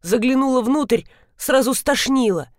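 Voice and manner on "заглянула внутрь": plain reading voice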